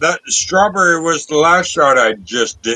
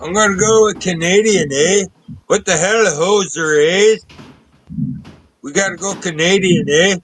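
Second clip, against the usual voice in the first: playful mock Canadian hoser accent. Drinker announcing a Canadian pick to friends, mock Canadian accent. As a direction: put on a light Canadian accent, punctuating with "eh".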